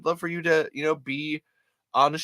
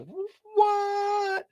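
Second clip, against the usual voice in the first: stunned what; 4 dB quieter than usual. Retold or imitated. Stunned reaction in retold story.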